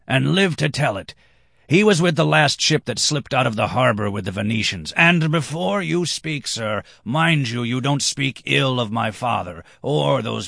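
high-pitched, proud defence; defensive redhead, indignant. A narrator's reading. Redhead defends his father to a doubter, indignant.

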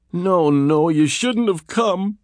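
high, slow, frightened plea through clenched lips; desperate gasp at her rescuer. Acted. Captive woman warning her rescuer, gasping in fear. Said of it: "Kelly gasped through clenched lips".

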